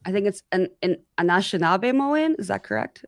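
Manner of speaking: muffled speech around gauze; careful words through a gauze-filled mouth. Real, not acted. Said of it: "I've gauze in my mouth".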